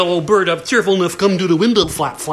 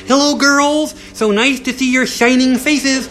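sweet mommy voice; 5 semitones higher than usual. Acted.

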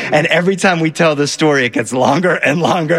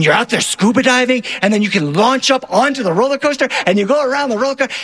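rushing, higher, faster at the end; excited kid; 3 semitones higher than usual. Retold or imitated. Little brother pitching wild ideas to dad, excited rush. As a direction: pile on ideas breathlessly like a kid.

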